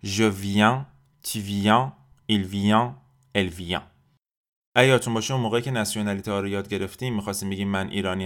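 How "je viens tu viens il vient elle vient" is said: "viens" and "vient" ending in a nasal vowel, no n; "viens", "vient" as vyan with the n silent. Shown as a demonstration. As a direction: send the end of "viens" and "vient" through the nose. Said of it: "آخرش رو باید توی بینی تلفظ بکنیم".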